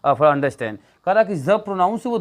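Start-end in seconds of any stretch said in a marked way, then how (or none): 0.0-0.8 very slow, each word weighted; slow teacher emphasis. Shown as a demonstration. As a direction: spell out the rule deliberately. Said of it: "याद रखिएगा".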